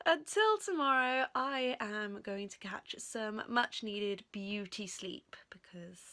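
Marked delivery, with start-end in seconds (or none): 1.3-6.0 drops to a whisper on sleep; sleepy hushed whisper. Real, not acted.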